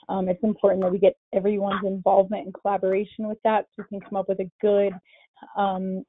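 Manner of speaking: breathless, catching air between phrases; winded after running up stairs; out of breath. Real, not acted. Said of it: "I'm out of breath. I had to run up some stairs".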